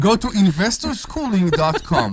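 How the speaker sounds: laughing through the plug. Real, not acted. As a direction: say it while cracking up. Plugs site while laughing.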